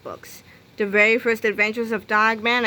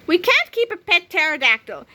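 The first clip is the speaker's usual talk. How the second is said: stern; 6 semitones higher than usual. Acted. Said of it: "said George sternly".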